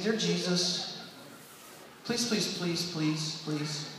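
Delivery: soft, pleading prayer by the bed; hushed bedtime prayer. Retold or imitated. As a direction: pray softly, begging. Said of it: "this is how we would pray that night".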